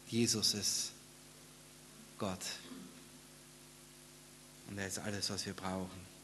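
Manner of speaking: low, soft, long pauses; hushed preaching. Real, not acted. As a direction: let it settle very quietly.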